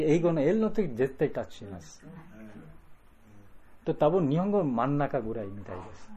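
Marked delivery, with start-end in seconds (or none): 0.9-2.0 絶対 stressed, lower and softer. Shown as a demonstration. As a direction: lean on 絶対 in 絶対タッチします.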